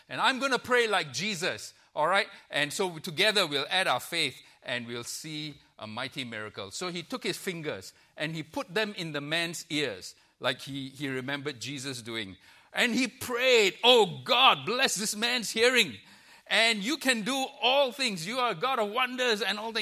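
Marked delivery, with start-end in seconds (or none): 0.1-6.7 mock preacher voice. Pastor to deaf man before praying, mock fervent voice. 12.7-13.8 building into prayer. Retold or imitated. Narrating the loud prayer. 13.8-19.8 much higher and louder, a mock fervent cry to God; hammed-up healing prayer. Pastor praying over man's ears, hammed-up loud cry.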